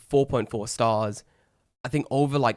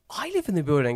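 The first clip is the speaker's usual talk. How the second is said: surprised echo; 5 semitones higher than usual. Retold or imitated. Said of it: "He goes".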